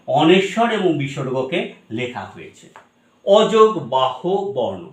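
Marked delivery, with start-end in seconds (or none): 3.2-4.8 অযোগ বাহু বর্ণ drawn out, word by word; slow, separated words. Shown as a demonstration. Teacher breaking down the term for students, slow and separated. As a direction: spell out each part of অযোগ বাহু বর্ণ slowly. Term repeated slowly to explain it.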